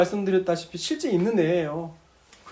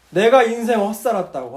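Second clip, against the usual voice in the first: louder regretful cry, beating the chest; mock lament; 2 semitones higher, 5 dB louder than usual. Dying deacon lamenting his wasted life, loud regret. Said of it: "자기 가슴을 자꾸 치더래요".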